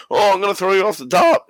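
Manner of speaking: high-pitched hammed-up announcing of a move; mock wrestler threat.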